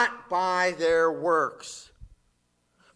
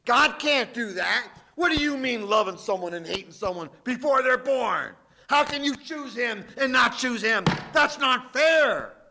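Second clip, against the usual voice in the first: indignant objection; 4 semitones higher, 3 dB louder than usual. Retold or imitated. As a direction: protest like a listener who feels cheated. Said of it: "He expects your response to be".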